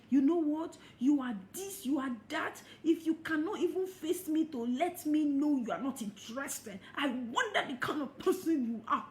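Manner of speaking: mock scream. Fed-up network marketer scolding an unresponsive prospect, mock yell. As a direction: play the fed-up caller yelling. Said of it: "you just scream down at the person".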